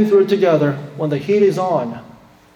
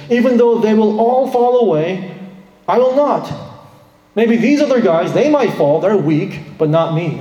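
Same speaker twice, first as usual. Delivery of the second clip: louder and higher, a proud protest; brash boast; 5 semitones higher, 4 dB louder than usual. Acted. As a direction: boast that you alone will stand firm. Peter boasting to Jesus.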